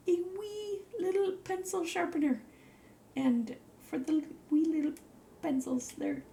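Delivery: high doting coo; cutesy high voice. Real, not acted. Presenting a tiny sharpener to viewers, high cutesy coo. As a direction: talk to it like it's a puppy.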